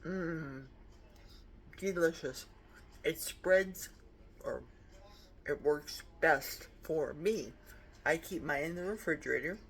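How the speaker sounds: talking while chewing bread; words round a mouthful of toast; mouth full. Real, not acted. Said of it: "Sorry for talking with my mouth full".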